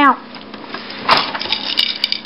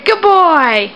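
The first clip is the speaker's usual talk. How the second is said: put-on modelling for baby; 4 semitones higher than usual. Shown as a demonstration.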